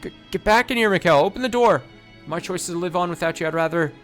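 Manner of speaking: high, loud yells at the door; desperate yelling. Acted. Locked-in woman yelling for Mikhail to open the door. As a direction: shout him back, furious with fear.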